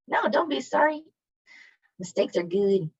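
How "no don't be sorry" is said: high-pitched, gentle reassurance; soothing, lifted pitch; reassuring. Real, not acted. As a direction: kindly wave away the apology in a much higher voice. Teacher reassures student who apologized.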